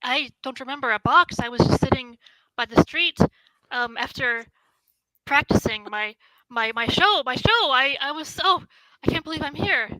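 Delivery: halting, flustered, rising in wonder; bewildered young woman. Acted. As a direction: stumble through it in amazed disbelief. Plays bewildered woman from box.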